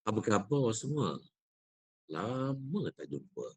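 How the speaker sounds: natural speaking voice. Shown as a demonstration. Teacher showing the better, natural recitation voice to students. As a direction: say it as if to a friend nearby, unforced. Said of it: "Yang kedua".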